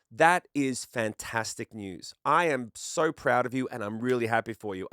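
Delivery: slow, emphatic congratulations, each word weighted; imitating over-earnest American pride; effusive American praise. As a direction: lay the praise on thick, deliberately. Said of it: "the American way would have been like".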